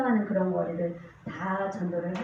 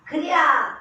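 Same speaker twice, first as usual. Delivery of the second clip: high, loud delighted exclamation; imitated delight; 7 semitones higher, 9 dB louder, much slower than usual. Homeless woman flattered by a compliment, imitated loud delight. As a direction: blurt it as the thrilled old woman. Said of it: "너무 좋아하시면서".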